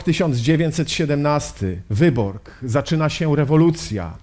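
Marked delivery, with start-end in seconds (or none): none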